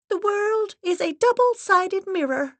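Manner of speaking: high, grave, steady voice; solemn medium's assistant. Acted. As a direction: speak like a severe séance guide. Assistant's held voice.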